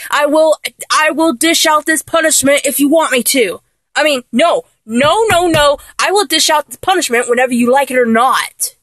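a mild attempt at a stern dom; trying to sound dominant. Playing the dom for her partner, half-hearted stern voice. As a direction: put on a commanding voice, barely convincing. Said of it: "I'll act like a real dom".

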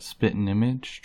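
spitting image with spitting said as spittin'; dropped G. Shown as a demonstration. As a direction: drop the final g of spitting in spitting image. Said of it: "dropping the G".

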